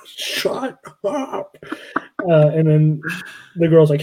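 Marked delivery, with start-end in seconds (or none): 0.1-1.6 high mock echo through a laugh. Echoing the bookshelf guy's line while laughing. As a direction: giggle the line back. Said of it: "who's like".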